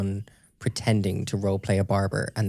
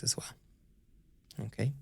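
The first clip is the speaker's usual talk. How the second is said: whispering; 2 semitones higher, 9 dB quieter, faster than usual. Acted. Talking over ASMR clip.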